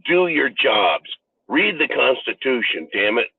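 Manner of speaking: demanding the government. Retold or imitated. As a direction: lay down the law word by word.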